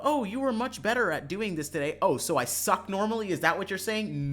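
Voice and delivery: mock quote. Mocking an oversensitive reply.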